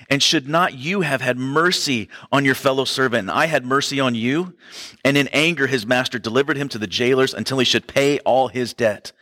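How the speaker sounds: a touch of the preacher's reading voice; scripture reading. Acted. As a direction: read the passage to the congregation. Reads the parable aloud.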